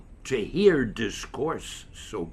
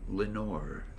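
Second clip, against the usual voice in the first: whispered name; 4 semitones lower, 7 dB quieter than usual. A narrator's reading. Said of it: "was the whispered word".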